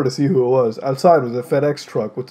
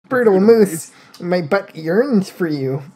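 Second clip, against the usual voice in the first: mock yearning; 3 semitones higher, slower than usual. Character's plea in story.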